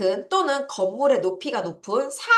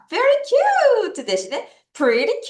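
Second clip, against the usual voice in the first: higher, louder and slow; teacher drilling pretty cute slowly; slow emphatic demo; 11 semitones higher, 4 dB louder, much slower than usual. Shown as a demonstration. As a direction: stress cute and pretty for the class. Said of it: "cute라고 할 수도 있습니다".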